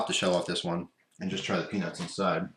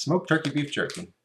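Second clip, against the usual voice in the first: "Smoked turkey beef jerky" tossed off higher, as a tongue twister; tongue twister attempt; 5 semitones higher than usual. Shown as a demonstration. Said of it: "Say that ten times fast".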